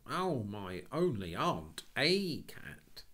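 slow, high, loud exclamation; mock astonishment. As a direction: feign shock at the idea. Cyril exclaiming.

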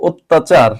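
অত্যাচার said as ওত্তাচার; correct pronunciation. Shown as a demonstration. Teacher modelling the word, অত্যাচার with closed o. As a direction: start অত্যাচার on a closed o, doubled t. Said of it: "এটাকে বলবো".

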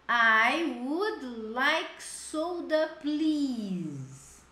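slow model phrase. Shown as a demonstration. Teacher modeling the phrase for students, slow and clear. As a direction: spell it out slowly for the class.

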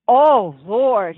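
dismayed Daddy. Acted. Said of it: "he says".

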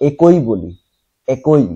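একই said "ekoi", closed e and oi; mispronunciation demo. Shown as a demonstration. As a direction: say একই as e-koi, the common mistake. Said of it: "একইও হবে না".

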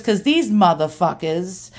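imitated blunt old New Yorker, slow; Ronnie's New York accent. Dad's friend curses the melters, New York accent. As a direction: drag it out in old-timey New York talk. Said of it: "old-timey New Yorkers".

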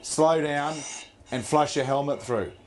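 calling instructions down the intercom; diver comms. Acted. Supervisor orders diver over intercom.

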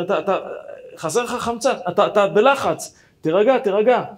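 high, loud insistent calming shout; yelling to calm. Retold or imitated. Pilot shouting at the narrator to calm down, loud. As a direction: shout at him to settle down. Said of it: "והוא צועק עליי".

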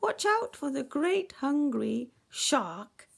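loud, high call of alarm; high, loud storybook warning; urgent warning cry. Acted. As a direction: shout a warning to the little fish. Narrator cries warning to fish.

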